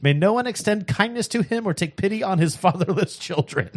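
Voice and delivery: rising impassioned oratory; preacher voice. Acted. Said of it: "that is your preacher voice".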